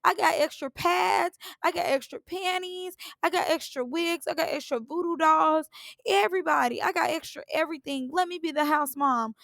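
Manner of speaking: hammed-up eager house mom pleading to lead; mocking Andrea. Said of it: "She like".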